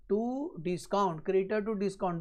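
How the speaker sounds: very slow, drawn-out words; slow dictation. Real, not acted. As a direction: dictate it slowly for note-takers. Teacher dictates the entry while writing. (धीरे-धीरे लिखवाते हुए)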